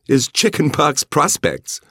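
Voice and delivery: slow, high, puzzled question; puzzled woman's voice. A narrator's reading. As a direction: ask it bemused, as a woman. Anne asks, puzzled.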